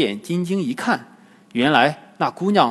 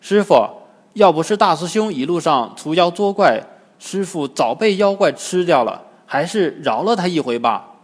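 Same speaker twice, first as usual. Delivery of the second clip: mildly raised, earnest plea; pleading; 3 semitones higher than usual. Acted. Sha Monk asks master to spare Wukong, mildly pleading. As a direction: plead lightly, easing down toward the request. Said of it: "沙僧在一旁求情".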